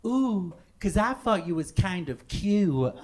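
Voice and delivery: slow, badly faked American girl; butchered American accent.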